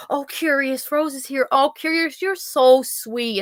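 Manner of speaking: mock sugary flattery, lightly voiced; mock sweet troll. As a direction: imitate the troll fawning over her. Imitating troll's fake flattery.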